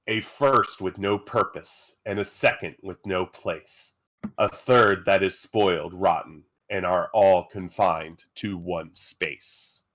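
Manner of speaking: measured, deliberate verse reading; riddle recital. Acted. Game master posing a riddle to players, measured recital. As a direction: read it out line by line, with pauses.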